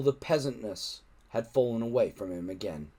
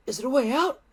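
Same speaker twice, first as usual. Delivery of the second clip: gasped; 12 semitones higher, 4 dB louder, faster than usual. A narrator's reading. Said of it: "gasped Fishlegs".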